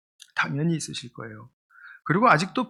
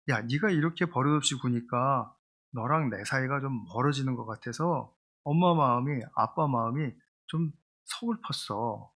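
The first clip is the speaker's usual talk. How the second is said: gentle I-message; 3 semitones lower, 3 dB quieter than usual. Shown as a demonstration. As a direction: say it softly like a sad, caring parent. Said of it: "그런데 아이 메시지는".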